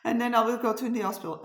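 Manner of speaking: retold protest rising to a high, loud plea; urgent, insistent pleading; pleading daughter. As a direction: imitate a daughter begging her mom. Daughter begging mother over the phone.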